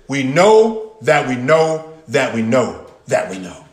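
each know hit with steady insistence; emphatic repetition. Shown as a demonstration. Pastor showing the congregation how to say it, insistent. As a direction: drum home the word know every time. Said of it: "We would say it like this".

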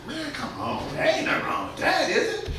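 soft, high wheedling; hushed, high-pitched imitation of an objector; mock excuse-making. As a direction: plead it small and high. Preacher voices someone excusing grumbling.

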